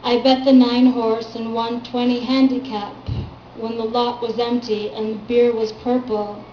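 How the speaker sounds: measured reading of a poem, firm line openings; poetry reading. Acted. Poet reading her work to a small audience, poetry reading. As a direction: recite your poem to a live room.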